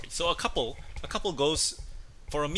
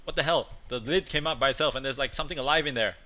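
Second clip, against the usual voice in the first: louder, a bit higher outraged complaint; upset husband; 4 semitones higher, 5 dB louder than usual. Retold or imitated. Husband complaining to the waiter, outraged. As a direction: complain in shock. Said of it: "He's like".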